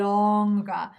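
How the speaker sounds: "longer" in standard British, the vowel drawn out and no R at the end; British longer, elongated. Shown as a demonstration. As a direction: stretch out "longer" the British way, no final R. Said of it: "we, we elongate it".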